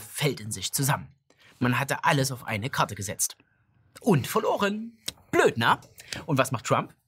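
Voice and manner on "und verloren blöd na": mocking gloat. Gloating over the Democrats.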